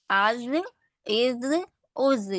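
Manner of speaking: از repeated to compare the sounds; teacher contrasting the sounds of از; contrast drill. Shown as a demonstration. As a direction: say از each time for the class to hear the difference. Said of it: "فرق ہے؟".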